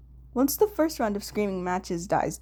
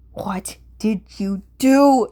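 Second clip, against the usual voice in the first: slow, much louder accusing snarl; spat out; 9 dB louder, much slower than usual. Acted. Kunikida turning on Dazai, spitting an angry accusation. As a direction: bite off each word in fury. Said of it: "he spits".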